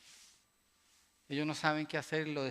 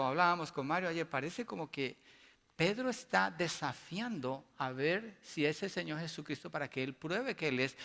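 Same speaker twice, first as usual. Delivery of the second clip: normal talking voice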